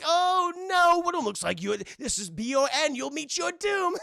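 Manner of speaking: high, loud hammed-up villain; gleeful villain voice. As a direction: crow it like a cartoon baddie. Villain gloats over Wonder Woman.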